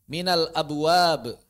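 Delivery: abwab read slowly, the final b bounced out; slow minal abwab with a ringing b; qalqalah demo. Shown as a demonstration. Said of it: "antum baca".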